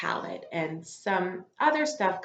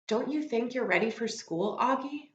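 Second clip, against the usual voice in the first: higher, lightly voiced mom asking gently; coaxing mom; 6 semitones higher than usual. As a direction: coax the boy toward school. Teacher voicing mom in story.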